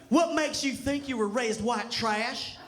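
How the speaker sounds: slow twangy drawl on white trash, imitating mom; lightly put-on drawl of a country mom; mom's white trash accent. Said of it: "that's how she says it".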